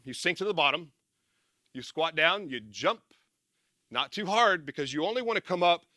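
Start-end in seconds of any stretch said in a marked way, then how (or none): none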